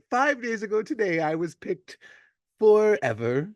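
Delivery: a hint of a creaky old-timer; old man voice. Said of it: "you all of a sudden have an old man voice".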